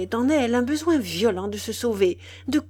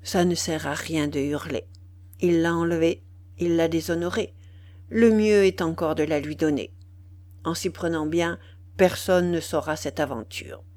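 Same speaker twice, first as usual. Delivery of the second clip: sadly; 3 semitones lower than usual. Acted. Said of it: "Il répondit tristement".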